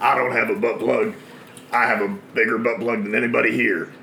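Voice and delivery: lightly voiced Undertaker impression; a hint of the Undertaker's promo voice. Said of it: "I'm doing Undertaker".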